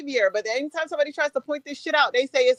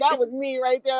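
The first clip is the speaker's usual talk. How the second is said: laughing quote. Retold or imitated. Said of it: "I said".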